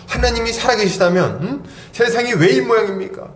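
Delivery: high-pitched, indignant challenge; angry protest. Acted. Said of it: "이렇게 하면서 막 화를 내는 거죠". (높은 목소리로 따지듯 화내는 흉내)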